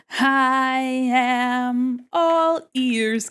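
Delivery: slow drawn-out eerie character line; slow creepy rabbit. Pretend. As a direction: drag every word like a creepy creature. Rabbit character voice, then joke.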